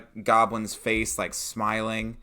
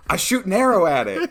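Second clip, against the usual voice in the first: loud, higher, laughing through the line; laughing player; 9 semitones higher, 9 dB louder than usual. Pretend. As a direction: declare the attack while cracking up. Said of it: "you're like".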